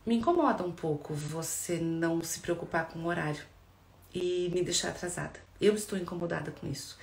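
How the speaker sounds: therapist shows the gentler version; calm I-statement. Shown as a demonstration. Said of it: "Entenda o que eu trago pra mim?".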